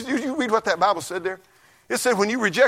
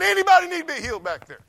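1 mock revival preacher; 10 semitones higher than usual.

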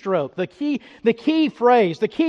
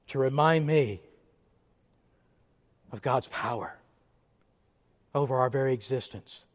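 low, softened voice with long pauses; hushed reflection; 4 semitones lower, 6 dB quieter than usual. Real, not acted. Preacher recalling yesterday's funeral, hushed and reflective. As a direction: drop into quiet, solemn personal testimony.

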